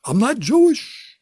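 high, slow, drawn-out rising "Jewish"; Jewish comic inflection. Shown as a demonstration. Comic denying he is Jewish, in a put-on Jewish lilt. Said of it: "I could do Jewish jokes".

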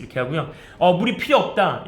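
ordinary talk

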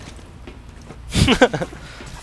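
real burst of exasperated laughter; frustrated laugh. Real, not acted. Player admitting their hate is strong, exasperated laugh. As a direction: laugh helplessly at your own annoyance.

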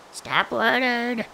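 high drawn-out yell; high comic yell. Pretend. Yelling at a mob.

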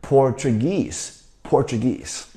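Portuguese slowly, last syllable stressed; end-stressed. Shown as a demonstration. Teacher rereads Portuguese for the class, slow, stressing the end. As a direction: say Portuguese with the weight on "guese". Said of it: "我们再读一次".

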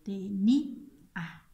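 "Tenía" slowed, ní drawn out and stronger; stressed syllable. Shown as a demonstration. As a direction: stretch the middle of "Tenía". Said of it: "tenemos la sílaba acentuada".

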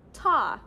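crisp spoken ta for a quarter note; teacher demonstrating the syllable ta; rhythm syllable. Shown as a demonstration. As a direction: say ta cleanly, like a teacher modeling. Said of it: "You say".

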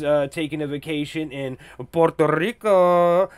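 Puerto Rico with a rolled Spanish flourish; Spanish-style Puerto Rico. Real, not acted. Host honours the people of Puerto Rico, Spanish-style Puerto Rico. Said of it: "I don't know why I said it like that".

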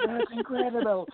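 high-pitched mock Australian amazement; imitating Australian accent. Retelling how the guitar player was blown away, in mock Australian accent. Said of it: "I can't do the Australian accent quite like he does".

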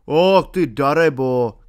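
loud, slow cry at a rascal; angry shout. A narrator's reading. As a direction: shout it out, drawing the words out. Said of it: "křikl příchozí". (hlasité, protáhlé okřiknutí)

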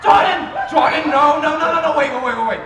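theatrical showman, loud and gleeful with cackles; hammed-up game host. Haunted game show host gloating over contestants. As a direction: ham it up like a wicked TV host.

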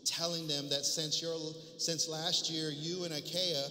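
reading the epistle aloud with firm projection; preacher reads scripture to the congregation, emphatic and measured. Acted. Preacher reading Paul's letter to his church, emphatic public reading.

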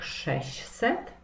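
"sześćset" with the ć dropped, as sześ-set; simplified pronunciation. Shown as a demonstration. Teacher showing pupils a first simplification, "sześćset" without its ć. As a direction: say "sześćset" as sześset, keeping the ś. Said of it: "opuścić głoskę ci".

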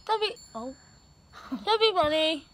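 cheeks stuffed with grapes; straining through a mouthful; mouth full. Real, not acted.

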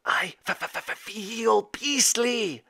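high, very slow distressed beast; stuttering dragon. A narrator's reading. Father turned dragon complaining to his son, stuttering. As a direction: sputter the first sound, then stretch it out.

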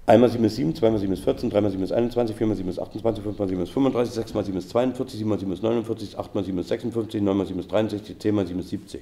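rapid-fire times-table recital without pauses; as fast as possible. Shown as a demonstration. Teacher races the seven times table against the clock, as fast as possible. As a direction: race through it against the clock. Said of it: "unter zehn Sekunden zu bleiben".

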